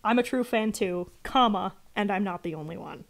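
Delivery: spoken "comma" after "too"; read as one sentence. Shown as a demonstration. Streamer correcting the writer's punctuation, comma read out. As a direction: say "comma" aloud between "too" and "and". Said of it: "It should be one sentence".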